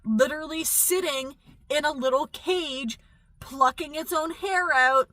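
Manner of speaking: sarcastic imitation of zoo-goers; mocking critics. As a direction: parody the hypocrites sweetly. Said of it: "then they're like".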